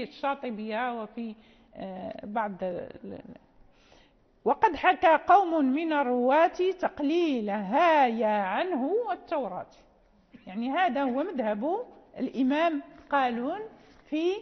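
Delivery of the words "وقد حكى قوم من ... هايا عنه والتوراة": verse recitation. Shown as a demonstration. Teacher reciting a verse of the poem to students, measured. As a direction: recite the line deliberately.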